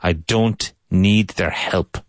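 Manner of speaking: don't ending in a crisp hard T, slow. Shown as a demonstration. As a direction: close your teeth and hit the T in don't. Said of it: "and a hard T".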